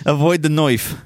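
playful Australian vowels; mock Australian accent. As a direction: joke along in a put-on Australian accent. Playing on Australian knife pronunciation.

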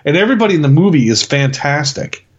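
normal talking voice

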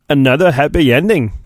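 a faint second try at Obi-Wan, close to his own voice; a hint of Obi-Wan, done badly; worse Obi-Wan. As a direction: attempt the Jedi master again, no better. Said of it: "That's even worse".

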